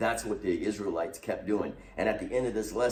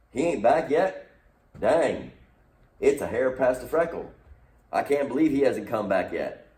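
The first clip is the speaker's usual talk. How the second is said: impatient grumbling crowd; 2 semitones higher, 4 dB louder than usual. Retold or imitated. Voicing impatient people.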